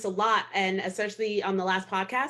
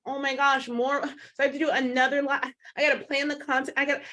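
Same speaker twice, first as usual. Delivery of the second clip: higher, flustered mock complaining; overwhelmed female coach; 5 semitones higher than usual. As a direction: act out a flustered coach overwhelmed by planning content. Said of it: "we would be like".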